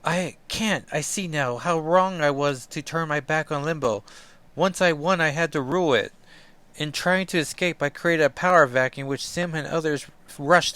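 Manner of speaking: put-on high, rueful young ruler; regretful sorceress. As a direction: own the mistake. Illyana voiced.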